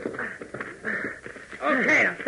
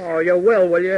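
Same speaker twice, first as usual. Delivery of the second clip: a touch of menace, louder; rising anger; 4 semitones lower, 4 dB louder than usual. Acted. Mechanic bristling at the boy's threat, barely held anger. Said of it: "don't get excited".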